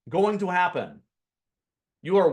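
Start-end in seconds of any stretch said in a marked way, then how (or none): 0.1-0.4 ever repeated, each one drawn out and hit; stress on ever. Shown as a demonstration. Teacher hammering home that unicorn buyers never show up, with heavy stress on ever. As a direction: lean on every ever, then punch the last one. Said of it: "emphasis on ever".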